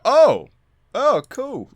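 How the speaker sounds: high, mildly surprised "oh, cool"; imitating surprised. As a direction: play it like a let-down friend. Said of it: "like that".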